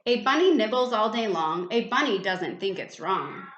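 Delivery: put-on sing-song rhyming poem read to a child; poem recital. A narrator's reading. Parent reading a rhyme aloud at bedtime, sing-song. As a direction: recite the bunny poem with a bouncy lilt.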